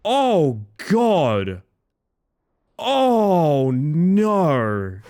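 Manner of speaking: mock dread. Real, not acted. Dread at upcoming test.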